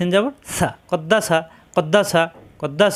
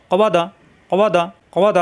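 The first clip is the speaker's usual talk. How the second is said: quick syllables. Shown as a demonstration. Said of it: "তাড়াতাড়ি, কোনো দেরি করা যাবে না".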